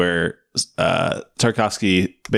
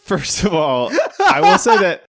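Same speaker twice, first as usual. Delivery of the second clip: put-on higher-pitched hammy Russian accent; 12 semitones higher than usual. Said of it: "Can you do a Russian accent?".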